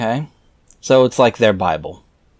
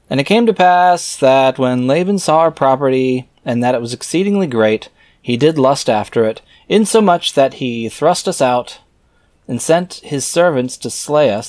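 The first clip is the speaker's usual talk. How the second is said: raised, measured reading voice; scripture reading; 3 semitones higher, 3 dB louder than usual. Acted. Reader reciting scripture verses aloud in a solemn reading voice. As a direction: read the old verses out with solemn weight.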